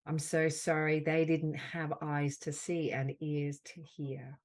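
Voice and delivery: slow, gentle words of comfort, pausing between them; tender affirmation. Acted. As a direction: soothe a hurt friend, unhurried.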